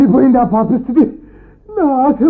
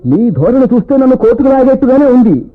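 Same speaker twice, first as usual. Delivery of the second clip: louder, exasperated rebuke; irritated retort; 3 dB louder than usual. Acted. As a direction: snap at her greed. Doctor snaps at greedy wife. (చిరాకుగా గట్టిగా మందలింపు)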